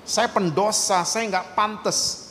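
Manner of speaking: slow, soft confession of unworthiness; hushed, acted self-reproach; imitated self-loathing. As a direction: say it slowly and softly, as one who feels undeserving. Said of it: "mungkin saudara lagi merasa jijik sama saudara sendiri".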